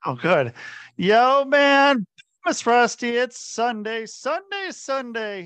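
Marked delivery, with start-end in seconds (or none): 1.0-4.1 booming hyped announcer, high and loud; monster truck ad. Acted. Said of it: "Monster Truck Rally edition". 4.1-4.7 monster truck ad. Acted. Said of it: "Monster Truck Rally edition". 4.7-5.4 booming hyped announcer, high and loud; monster truck ad. Acted. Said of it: "Monster Truck Rally edition".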